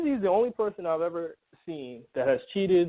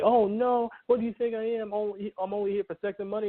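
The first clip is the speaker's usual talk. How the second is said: mock protest; 7 semitones higher than usual. Voicing women who protest to men.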